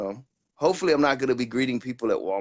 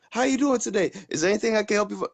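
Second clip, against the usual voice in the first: higher, fast mock service patter; eager clerk; 7 semitones higher than usual. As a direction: rattle off the greeting like a rookie clerk. Retelling own clerk greeting.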